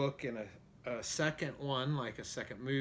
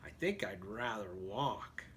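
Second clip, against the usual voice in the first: horse voice; 4 semitones lower, 5 dB quieter than usual. Acted. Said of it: "what he thought was".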